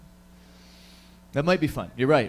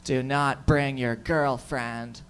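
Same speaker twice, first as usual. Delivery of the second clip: slow, hushed, ominous warning that sinks to a whisper; friend's warning; 2 semitones lower than usual. Retold or imitated. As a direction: warn him like a campfire tale. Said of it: "He said".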